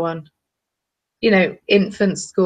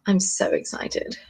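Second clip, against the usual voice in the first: slow, breathy hush; whispered excitement; 6 dB quieter, slower than usual. Real, not acted. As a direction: hold it in. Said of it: "intensely excited".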